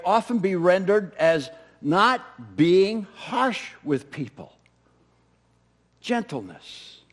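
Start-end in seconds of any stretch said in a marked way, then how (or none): 6.0-7.0 soft repeated word. Shown as a demonstration.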